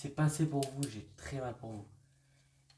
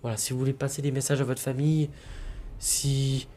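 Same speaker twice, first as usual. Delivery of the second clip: calling out; 6 dB louder than usual. Real, not acted. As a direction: project to someone unseen. Calling out to spirit.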